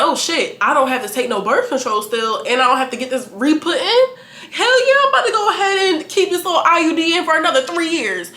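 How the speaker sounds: ordinary talk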